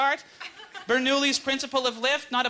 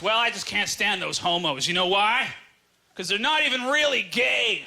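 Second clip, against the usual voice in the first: mock-defensive small-town guy. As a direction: justify yourself, lightly imitating the man. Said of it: "then he gets all defensive".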